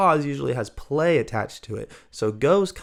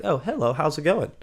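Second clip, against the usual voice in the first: higher-pitched, breezy hello; mock-surprised greeting; 5 semitones higher than usual. Shown as a demonstration. Teacher greeting a returning student afresh, mock surprise. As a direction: greet them as if newly arrived.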